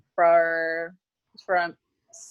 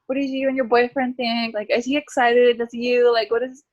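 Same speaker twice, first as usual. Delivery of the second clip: higher, lightly mimicked chatty nurse; 4 semitones higher than usual. Nurse at ultrasound asking about boyfriend, mock-bright curiosity. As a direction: imitate a nurse asking eager questions. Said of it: "the nurse would be like".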